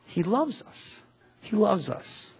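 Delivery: soft, high, hushed assurance; tender. Real, not acted. Preacher reassuring the congregation about hard times, tender. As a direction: say it softly, lifted in pitch.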